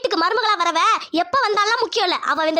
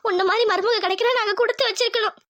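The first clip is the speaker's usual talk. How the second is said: tearful praise. Acted. Mother-in-law comforting Tamil through tears. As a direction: voice catching with tears while comforting.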